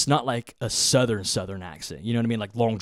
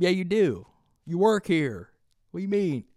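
incredulous retort; 8 semitones higher than usual. Retold or imitated. Acted quarrel with drawling local.

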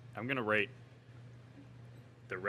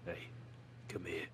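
mock Scottish accent; 4 semitones lower, 12 dB quieter than usual. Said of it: "I've never heard you do this accent".

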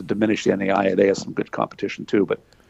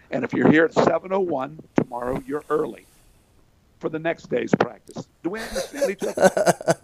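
stern coach; 5 semitones higher than usual. Retold or imitated. Coach giving stern orders.

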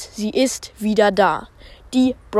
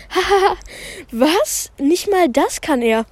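higher, taunting sneer; mocking girl; 7 semitones higher than usual. Sakura mocks Spike in front of class, higher. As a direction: laugh at his mistake.

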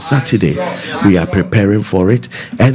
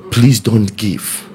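slow earnest plea; much slower than usual. Real, not acted. Pastor warns givers with wrong hearts.

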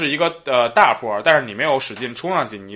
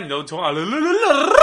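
motorbike imitation; 6 semitones higher than usual. Shown as a demonstration. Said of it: "模仿那个摩托车".

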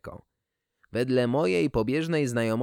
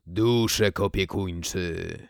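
put-on old speech synthesizer; 3 semitones lower, slower than usual. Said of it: "włączyłem syntezator mowy".

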